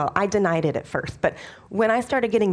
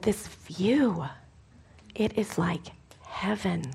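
whispering; 6 dB quieter, slower than usual. Retold or imitated. Whispered aside about ugly house.

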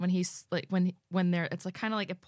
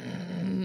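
imitated growl. Host imitating the growl from the back seat, growling. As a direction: hum out a rumbling growl. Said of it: "in the back seat growling at us".

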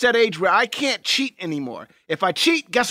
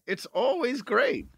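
slow, stoned drawl; 3 semitones higher, 7 dB quieter, slower than usual. Real, not acted. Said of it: "you're so stoned right now".

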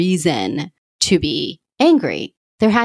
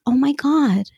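excited recognition; 6 semitones higher, much slower than usual. Retold or imitated. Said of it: "I was just like".

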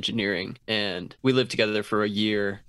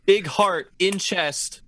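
slow, laughing caveman talk; playful caveman, drawn out slow; 5 semitones higher, slower than usual. Acted. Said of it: "You can only talk like cavemen".

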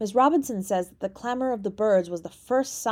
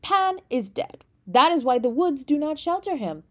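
resonant proclamation; 6 semitones higher, 3 dB louder than usual. A narrator's reading. Mister Sandbach announcing Pan's death, resonant proclamation. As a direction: intone it as if filling a great church. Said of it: "his mellow voice filling the valley".

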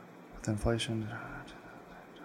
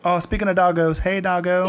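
excited dog greeting; 5 semitones higher, 4 dB louder than usual. Real, not acted.

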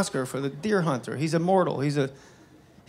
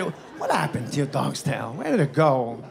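slow, lower mimicked star voice; light impression, drag out the question; Christopher Walken; 4 semitones lower than usual. Actor asks comic about his tailless dog, slow lightly mimicked questioning. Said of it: "and he goes".

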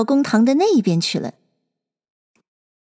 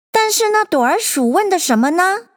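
juror voice; 8 semitones higher than usual. A narrator's reading. Juror asking.

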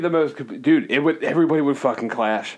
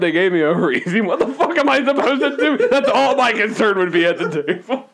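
worked-up comic griping, getting higher; mock pissed-off; 4 semitones higher, 4 dB louder than usual. Diner complaining about eggs cooked wrong, mock pissed-off. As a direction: rant over a trivial wrong order. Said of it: "I'm pretty pissed off".

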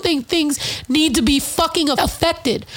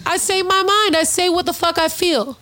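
higher and insistent, refusing to back down; defiant; 5 semitones higher than usual. Real, not acted. Telling the crowd he speaks his mind, defiant and higher. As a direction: say it like nobody can stop you.

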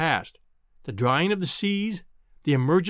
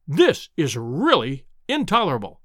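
a raised, exasperated outburst; a lecturer losing his temper; furious cry; 3 semitones lower than usual. Acted. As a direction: snap at the heckler in fury. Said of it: "he cried".

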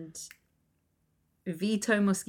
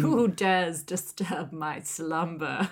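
trollish voice; slower than usual. Retold or imitated. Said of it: "trollish energy".

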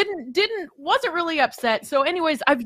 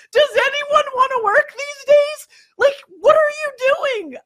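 loud, high-pitched incredulous rant; exasperated outburst; 14 semitones higher, 8 dB louder than usual. Retold or imitated. Mother ranting at babysitter who refuses weekends, loudly exasperated. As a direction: retell it as raised-voice outrage.

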